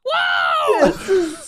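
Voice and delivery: very high cartoon cry; Elmo. Elmo suddenly naked, high squealed whoa. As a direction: shriek it in a puppet voice. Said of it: "and Elmo goes".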